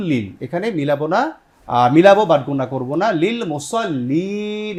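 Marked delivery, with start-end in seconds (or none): 3.2-4.7 slow recitation demo. Shown as a demonstration. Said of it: "ওয়াকফ করলে কয় আলিফ".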